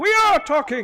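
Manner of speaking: put-on shrill, very high old wizard voice yelling. Voicing a hedge wizard who threatens the party: shouting hedge wizard. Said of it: "we're shouting".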